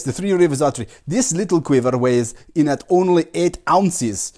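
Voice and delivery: lightly voiced pompous foreign champion; a hint of a grand visiting archer; Jan von Ripberger voice. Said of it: "introduce you to my special guest".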